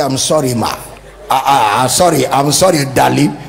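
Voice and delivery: timid apology. Retold or imitated. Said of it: "He's so intimidated".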